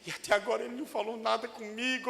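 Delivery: quick worried aside; sheepish Peter. Acted. Peter fretting to himself, fast and quiet. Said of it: "E Pedro todo escabriado".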